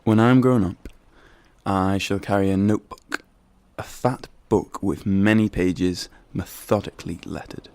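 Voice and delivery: loud, forceful declaiming. Acted. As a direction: project it to the back row.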